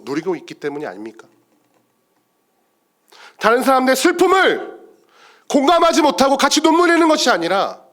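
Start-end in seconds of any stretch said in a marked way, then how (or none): 3.4-7.8 high, reproving pulpit voice; impassioned preaching. Real, not acted. Preacher reproving those who won't share sorrow, impassioned. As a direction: drive the rebuke home to the congregation.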